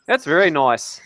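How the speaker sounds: mock-Aussie approval; playful Australian accent. Agreeing Australia is nice, Australian accent.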